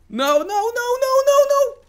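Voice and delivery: screaming in panic as the boss closes in; panicked no. Real, not acted. Gamer dying to the boss, rising panicked screams. Boss about to kill him.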